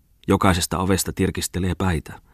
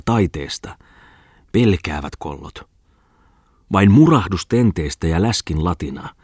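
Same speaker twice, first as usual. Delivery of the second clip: gleeful rant. Acted. Pungman's gleeful drunken brawl rant.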